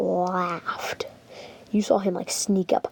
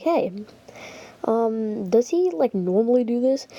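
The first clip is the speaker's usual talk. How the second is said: suspicious teacher; 3 semitones higher than usual. Retold or imitated. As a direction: lightly play a teacher quizzing a student. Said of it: "getting suspicious".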